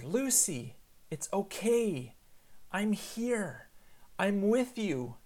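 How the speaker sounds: put-on slow, tender comfort to a child; earnest reassurance. Dad holding his daughter so she will trust him, reassuring. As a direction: reassure slowly, each phrase given room. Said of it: "I'm trying to say to her".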